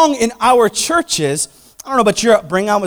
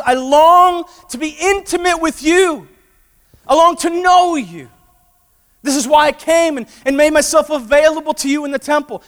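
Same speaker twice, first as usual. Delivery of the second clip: voice of God; 7 semitones higher, 3 dB louder than usual. Acted.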